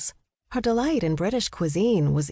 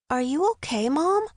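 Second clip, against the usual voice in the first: put-on higher boyish voice, concerned question; genuine concern; 8 semitones higher than usual. A narrator's reading. Fitz to his winded mother, genuinely concerned. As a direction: check on her sincerely, pitch lifting. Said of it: "asked with genuine concern".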